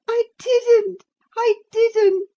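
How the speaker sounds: high, loud sobbing denial; sobbing girl. Acted. Girl denying to her nurse, sobbing high and loud. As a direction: sob it out, heartbroken. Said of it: "sobbed Cathy".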